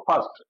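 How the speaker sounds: ফার্স্ট said in one go; one syllable. Shown as a demonstration. Teacher showing it has one syllable, ফার্স্ট in one piece. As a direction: say ফার্স্ট whole, with no break. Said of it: "একবারই বললাম".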